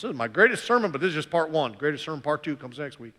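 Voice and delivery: put-on joking, light southern accent. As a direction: slip into a playful southern accent. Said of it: "I had that southern accent".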